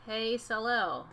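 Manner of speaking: "Hey, Solo" with first sounds swapped; spoonerized "Hey, Solo" for say hello; spoonerism. Shown as a demonstration. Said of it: "Spoonerism is when you switch".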